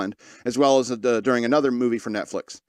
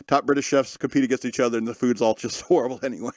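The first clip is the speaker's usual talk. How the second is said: laughing; 2 semitones lower than usual. Real, not acted. Cracks up at own joke.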